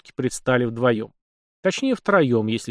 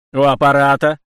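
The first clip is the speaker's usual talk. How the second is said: loud, gruffly barked phone answer; 2 semitones higher, 9 dB louder than usual. A narrator's reading. Captain interrupted by the intercom buzzer, barking. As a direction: bark it into the intercom. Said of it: "рявкнул в динамик капитан".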